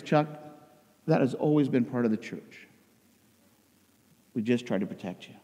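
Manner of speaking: soft, sinking, resigned reassurance; gentle parents. Retold or imitated. Parents explaining to their son they shielded him, gently. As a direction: break it to them gently.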